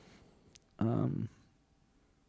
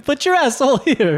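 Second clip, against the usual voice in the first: put-on Mexican accent; 14 semitones higher, 4 dB louder than usual. Joining the accent sketch.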